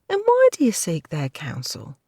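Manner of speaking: timid maidservant. Acted.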